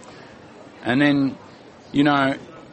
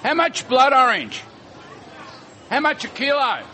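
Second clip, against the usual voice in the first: shouting a question; 14 semitones higher than usual. Real, not acted. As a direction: yell the price question over the crowd. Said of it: "Bit of screaming".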